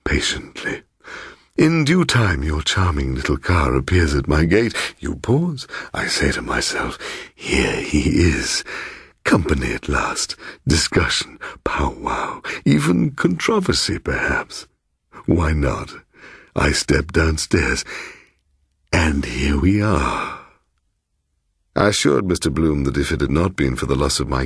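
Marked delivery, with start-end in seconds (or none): 0.0-0.8 whispered echo. Acted. Bloom savouring his long wait, whispered echo. Echoed word under breath. 1.6-20.4 lightly voiced, insinuating old host; a hint of a smooth, teasing host welcoming a guest; sly host Bloom. Host Bloom teasing his surprised guest, lightly voiced insinuating tone.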